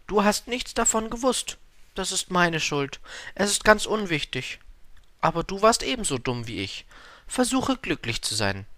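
high-pitched flower voice; Blume bittet um Verzeihung. A narrator's reading. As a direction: pitch it well up, a contrite flower. Flower takes the blame. (hohe Blumenstimme, reumütig)

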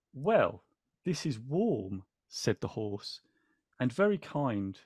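slow, tender read-aloud with light character voices; story reading. A narrator's reading. Host reading the book to viewers, tender and slow.

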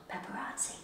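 mock-secret whispered warning; playful whisper. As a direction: whisper it, breaking into a little laugh. Playful hushed warning about the camera.

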